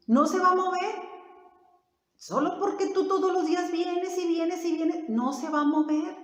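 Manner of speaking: a hint of an insistent tempter; discouraging devil. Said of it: "Así el diablo aquí le dice".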